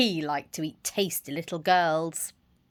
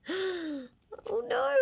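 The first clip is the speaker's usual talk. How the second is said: shocked; 12 semitones higher, 5 dB quieter than usual. Acted. Narrator shocked at pounce.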